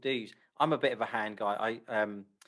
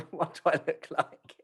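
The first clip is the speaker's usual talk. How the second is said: higher and louder, laughing at herself; self-mocking laugh; 6 semitones higher, 4 dB louder than usual. Host mocks her own posture, laughing. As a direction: laugh as you ask it. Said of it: "I was like".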